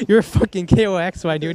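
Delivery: lively imitated jab; retold outburst. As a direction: blurt it out like a teammate bursting out. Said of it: "bursted out like".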